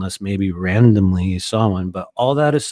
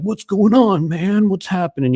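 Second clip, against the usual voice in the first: mild impression of older guy; 8 semitones higher, 5 dB louder than usual. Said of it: "he's like".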